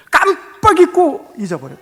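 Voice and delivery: chuckling through the friend's lame excuse; laughing excuse. Retold or imitated. Pastor mimics forgetful friend to congregation, laughing. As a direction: laugh it off, half-embarrassed.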